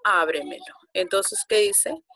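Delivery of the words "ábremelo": ábremelo with the á stressed. Shown as a demonstration. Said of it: "es la letra A".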